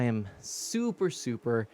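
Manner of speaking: panting after dancing; winded, catching breath between words. Real, not acted. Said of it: "I'm totally not out of breath right now".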